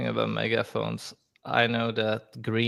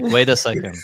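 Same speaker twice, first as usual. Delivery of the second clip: louder, a cashier halting mid-order; mock cashier pause; 7 dB louder than usual. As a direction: stop the order to go buy. Cashier pausing to buy dip.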